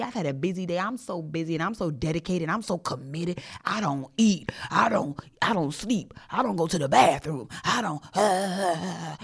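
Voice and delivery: mock self-important busy martyr; flexing. Flexing on coworkers about overwork, mock martyr. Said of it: "I was trying to flex on you".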